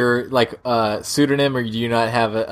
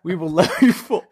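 badly faked South African accent, a touch raised; botched South African accent; 3 semitones higher than usual. Host pleads with listeners for reviews, botched South African accent. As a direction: attempt a shaky-grasp South African accent. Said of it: "He sounds like a mix of Sean Connery".

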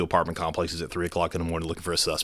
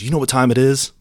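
higher, louder threat from a robber; menacing robber; 6 semitones higher, 8 dB louder than usual. Retold or imitated. Officer voicing the armed robber to his audience, menacing. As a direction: growl the stickup line like the gunman. Robber voiced, gun to ribs.

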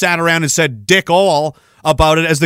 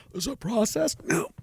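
mock interjection; 5 semitones higher, 13 dB quieter than usual. Self-dialogue aside.

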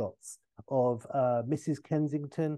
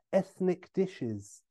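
air quotes; 5 semitones higher, much slower than usual. Shown as a demonstration.

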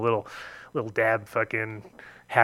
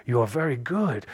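mimicked approving older man; a higher "Oh", then measured praise; impressed old dealer; 4 semitones higher, slower than usual. Arrogant dealer praising a smoker's big hit, mimicked approval. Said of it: "And he was like".

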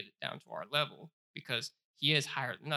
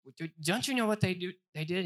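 mock accuser; 5 semitones higher, faster than usual. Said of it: "they'll say".

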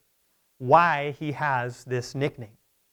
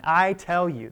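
lightly stressed "I" in a quick reminder; emphatic statement; 3 dB louder, slower than usual. Retold or imitated. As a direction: press a little on "I" to demand attention. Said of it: "That means pay attention, listen".

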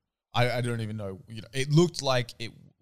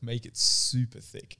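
slow creepy quote; slower than usual. Retold or imitated. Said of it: "leans a little bit over the glass thing and says".

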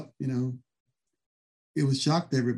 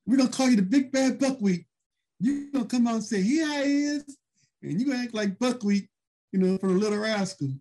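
Jesse Ventura selling the gimmick; 7 semitones higher than usual. Retold or imitated. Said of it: "I'm like, "What?".

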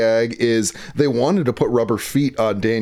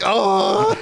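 higher, mild mock cry of pain; pained, frustrated cry; 8 semitones higher than usual. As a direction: imitate a frustrated yelp of pain, held back. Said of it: "pain and frustration, like".

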